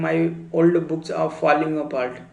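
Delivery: very slow, each word spaced out; slow model sentence. Shown as a demonstration. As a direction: say it slowly for learners to repeat. Teacher models English sentence. (बहुत धीरे, साफ़-साफ़ बोलकर)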